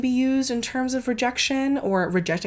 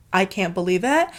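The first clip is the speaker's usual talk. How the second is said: plain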